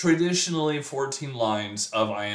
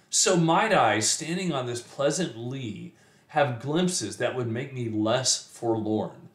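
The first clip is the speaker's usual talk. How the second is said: expressive, measured poetry reading; poem recitation. Acted. Teacher reading a sonnet to students, poem recitation. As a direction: recite the verse, letting each phrase land.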